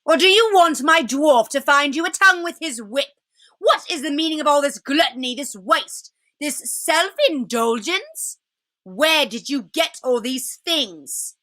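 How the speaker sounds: a hint of a furious queen; lightly voiced angry witch. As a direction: scold the feasters like a tyrant. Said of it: "she said again".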